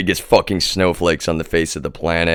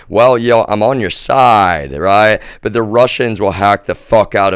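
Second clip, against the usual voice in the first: heated; 3 semitones higher, 5 dB louder than usual. Real, not acted. Ranting at the authorities.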